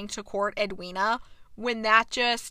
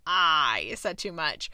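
low, slow, breathy confession; guilty whisper; 7 semitones lower, slower than usual. Retold or imitated. Dorset caught out by Kate, slow guilty whisper. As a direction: let the secret slip out in a whisper.

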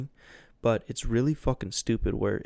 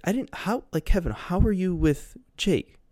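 higher, stammering confusion; mock baffled friend; 8 semitones higher, 4 dB louder than usual. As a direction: play it lost and flustered.

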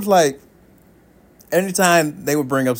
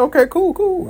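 awkward okay. Retold or imitated. Awkward acceptance of secret.

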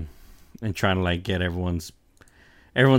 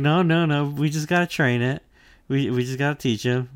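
high, louder cheerful insistence; Luffy with his head bitten, high upbeat reassurance; carefree Luffy; 6 semitones higher, 4 dB louder than usual. Retold or imitated. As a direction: brush off the danger like it's nothing. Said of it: "It's like".

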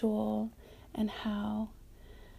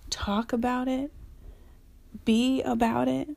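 fired up; 3 semitones higher, 3 dB louder than usual. Real, not acted. Rallying exhortation, louder.

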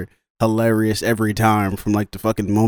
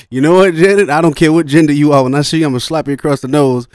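loud, raised-pitch mock tirade; going off; 4 semitones higher, 6 dB louder than usual. Doctor going off at Janet on the phone, mock angry. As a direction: imitate a man loudly telling someone off. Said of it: "the dude going off on the guy".

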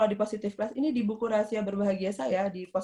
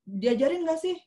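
higher-pitched acted reproach; rude scolding; 4 semitones higher than usual. Queue victim scolding a line-cutter, rude and indignant. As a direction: tell someone off with a raised pitch. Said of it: "Itu kasar".

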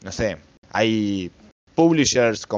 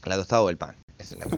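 talking through a mouthful; chewing while speaking; mouth full; 3 semitones lower, 5 dB quieter, much faster than usual. Real, not acted. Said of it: "estamos comiendo".

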